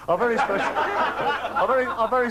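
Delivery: fighting off the giggles; words broken by laughter; laughing through it. Real, not acted. Presenter laughing through the intro.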